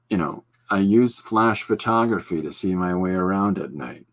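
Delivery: lightly imitated deadpan comic; Stephen Wright. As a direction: deliver the joke with mild deadpan. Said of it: "it's just really deadpan".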